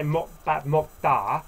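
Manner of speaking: "bat mok da" slowly, with a firm ending; strong-sounding Korean. Shown as a demonstration. Teacher showing the impolite form, strong "bat mok da". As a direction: say "bat mok da" bluntly, without softening. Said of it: "sounds quite strong".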